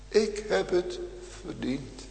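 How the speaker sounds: softly, fading almost to nothing; murmured guilty admission; hushed confession. Acted. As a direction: let the words sink down. Preacher repeats confession, then softly.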